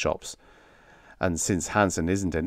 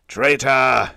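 loud, drawn-out furious cry; bellowed; 5 semitones higher, 7 dB louder than usual. A narrator's reading. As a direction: bellow the accusation. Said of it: "he bellowed".

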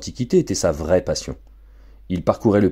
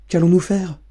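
worried wife; 10 semitones higher than usual. Acted. Anxious wife asks.

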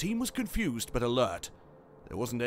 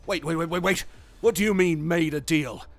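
raised, rising alarmed disbelief; shocked interruption; 4 semitones higher, 5 dB louder than usual. A narrator's reading. Commander interrupts AI over the secret deal, shocked. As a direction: cut in, demanding an explanation.

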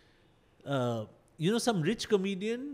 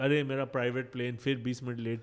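wealthy Indian man; 7 semitones lower, much faster than usual. Retold or imitated. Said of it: "who's sort of like".

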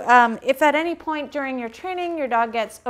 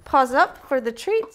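excited cue; 3 semitones higher, 4 dB louder than usual. Shown as a demonstration. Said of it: "Halo's very excited when I say".

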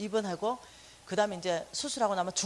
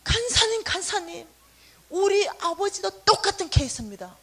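higher, louder, eager call; much higher excited woman; 7 semitones higher, 6 dB louder than usual. Retold or imitated. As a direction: call out eagerly to share the news. Pastor's wife calling excitedly.

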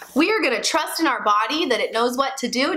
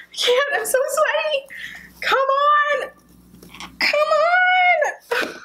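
mock pushing strain; slower than usual. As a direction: push through it, desperate. Mock labor, pushing hard.

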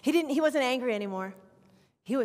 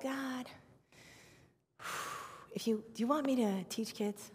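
hushed prayer; 8 dB quieter than usual. Retold or imitated. Retold private prayer to God.

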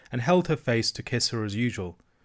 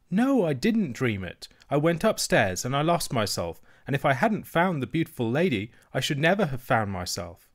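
a little princess stating the truth; young girl insisting earnestly; child princess; 4 semitones higher than usual. Acted. Princess insists she did not dream.

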